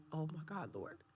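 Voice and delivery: high pleading; pleading with God. Retold or imitated. Guest acting out pleading her love to God. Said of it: "I was like".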